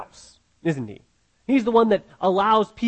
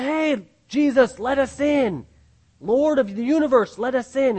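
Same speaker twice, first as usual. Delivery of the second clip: begging to get in; 4 semitones higher than usual. Retold or imitated. People begging Jesus to enter.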